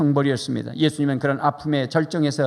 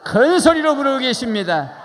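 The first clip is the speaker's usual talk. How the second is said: 큰 소리로 said higher and louder when asked again; louder answer; 5 semitones higher than usual. Real, not acted. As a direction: answer back with more voice. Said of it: "어떻게요?".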